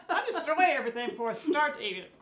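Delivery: talking with a full mouth. Real, not acted. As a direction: speak through a mouthful of burger. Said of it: "she's talking with a full mouth".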